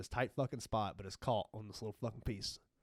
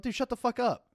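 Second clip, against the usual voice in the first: much higher, louder hammed-up yell; mock yell; 12 semitones higher, 7 dB louder than usual. Telling the know-it-all apprentice to shut up, hammed-up yell. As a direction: blast him like a fed-up boss.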